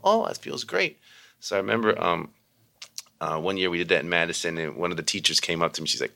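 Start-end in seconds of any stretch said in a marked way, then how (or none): 0.0-1.0 high, gushing "oh"; the kids melting with pleasure; delighted kids. Retold or imitated. Kids' delighted reaction voiced.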